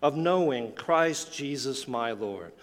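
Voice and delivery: measured, solemn reading of scripture. Acted.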